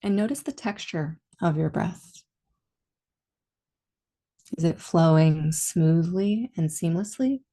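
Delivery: calm meditation guide, long pauses between phrases; guided meditation. Real, not acted. Teacher leading listeners into body and breath awareness, calm guided meditation. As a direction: ease them gently inward, leaving space after each instruction.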